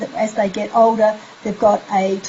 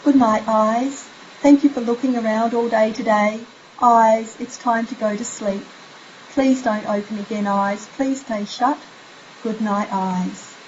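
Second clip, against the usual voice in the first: sleepy bedtime voice. Shown as a demonstration. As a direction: lull them to sleep. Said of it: "something like".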